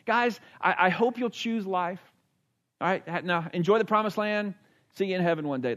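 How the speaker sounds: light, offhand send-off; casual. Retold or imitated. Mimicking how Moses did not say it, casual. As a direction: toss it off like a friendly goodbye. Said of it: "it's not just this casual".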